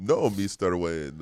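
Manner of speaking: slow, light Count voice; denying it like the Sesame Street Count, slowly. Acted. Accused Russian butler denying spying, slow light Count voice. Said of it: "count from Sesame Street".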